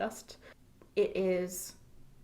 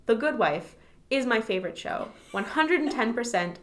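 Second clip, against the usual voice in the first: louder, declarative proclamation; emphatic announcement; 3 semitones higher, 5 dB louder than usual. Real, not acted. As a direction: announce it to the world. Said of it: "I am announcing it to the world".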